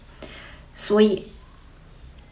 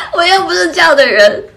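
high, loud, laughing protest; 7 semitones higher, 8 dB louder than usual. Real, not acted. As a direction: protest while cracking up. Speaking through own burst of laughter. (笑着大声否认)

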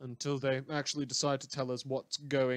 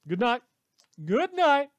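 escalating goodnight; 11 semitones higher, 10 dB louder than usual. Acted. Host's escalating sign-off.

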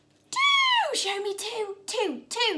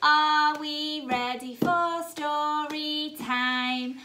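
slow story time call; 2 semitones lower, slower than usual. Acted. Opening nursery story time.

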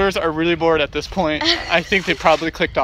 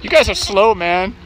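calling out; 3 semitones higher, 4 dB louder than usual. Real, not acted. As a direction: hurry them along, raised voice. Calling to lagging kids on hike.

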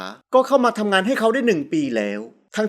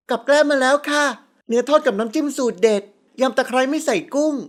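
put-on chirpy serving girl; 4 semitones higher than usual. Girl announces the food served.

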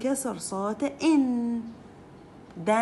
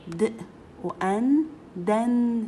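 "دن" called out louder; loud teaching drill; 4 dB louder, much slower than usual. Shown as a demonstration. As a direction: boost the drill so the class hears. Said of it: "صار لي دن". (تلقين بصوت عالٍ)

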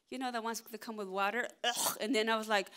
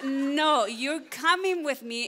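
louder, firm retold husband; firm insistence; 4 semitones higher, 7 dB louder, slower than usual. Husband telling tired wife she's coming, firmly loud. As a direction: insist she keeps climbing, voiced loud. Husband refusing to let her quit.

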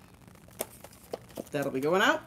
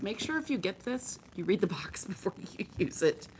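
half-whispered aside; 4 dB quieter than usual. Real, not acted. Conspiratorial warning aside to viewers.

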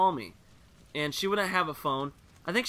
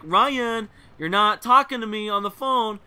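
higher, louder mock whine of protest; imitated scolding complaint; 4 semitones higher, 6 dB louder, slower than usual. Girl scolds Ryan for ignoring her phone game, mock-indignant. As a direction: complain like a put-out kid.

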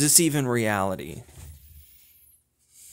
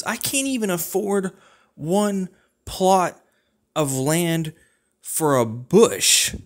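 high-pitched whine rising to a louder, slow drawn-out end; whiny complaint; 6 semitones higher, 3 dB louder, slower than usual. Acted. Ranting to a friend about unaffordable land, high-pitched whine. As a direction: whine it up high, then lean hard on the last words.

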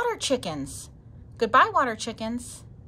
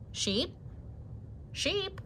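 calling out; 10 semitones higher, 7 dB quieter, much slower than usual. Acted. Sheepdog calls for missing Sheep.

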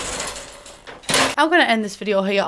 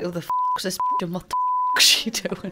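high squeaky mock voice for the German; imagined German's thoughts; 4 dB quieter than usual. The German sizing her up, high mock voice. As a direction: voice his baffled stare, much higher. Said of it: "He's looking at me like".

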